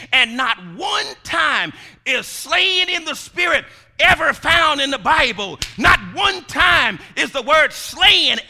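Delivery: loud, slow, emphatic sermon delivery; forceful preaching. Real, not acted. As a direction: hammer each point home.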